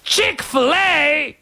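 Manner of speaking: slow, high British tourist voice; British accent. Retold or imitated. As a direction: savour the word like a Brit abroad. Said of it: "My accents are awful".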